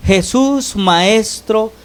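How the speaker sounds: súplica citada en tono más agudo, sin gritar; voz alzada. Retold or imitated. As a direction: imitando un clamor leve y agudo. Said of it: "alzaron la voz diciendo". (voz alzada al citar un clamor)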